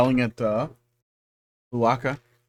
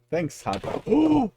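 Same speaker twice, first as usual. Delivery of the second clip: high, slow, mock-grateful thanks; teasing a cat who made you yawn; sarcastic thanks; 10 semitones higher, much slower than usual. Real, not acted.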